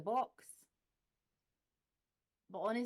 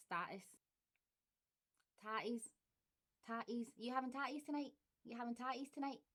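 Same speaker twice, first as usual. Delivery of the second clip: Glaswegian; 3 semitones higher, 3 dB quieter than usual. Shown as a demonstration. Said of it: "accent tag word demo".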